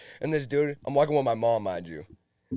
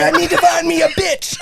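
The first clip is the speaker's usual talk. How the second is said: 1 London lad voice; 10 semitones higher than usual. Retold or imitated. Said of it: "He's like".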